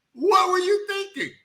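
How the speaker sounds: same high shout, dragged out slowly; slow exasperated shout. Retold or imitated. Host repeating it to the screen, slow shouted disbelief. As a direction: stretch it out in disbelief.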